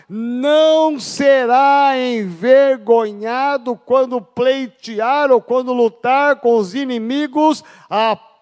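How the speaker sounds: slow, solemn reading; scripture reading. Acted. Pastor reads the last verse to the church, slow and solemn. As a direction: let the promise ring out.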